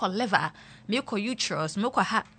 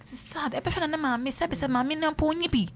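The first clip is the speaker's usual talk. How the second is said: playful; 4 semitones higher than usual. Shown as a demonstration. Radio host saying a sad fact playfully to listeners. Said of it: "You see the way I'm saying it playfully like that?".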